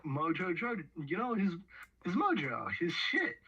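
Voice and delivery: building excitement up high; excited. Real, not acted. Excited about Vox's mojo.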